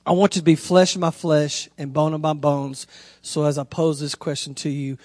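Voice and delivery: low, measured poem reading; quiet, earnest recital; proposal reading. Retold or imitated. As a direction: read your love poem softly and sincerely. Reads his proposal poem aloud.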